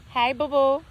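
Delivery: pet talk. Real, not acted. Greeting an animal mid-talk.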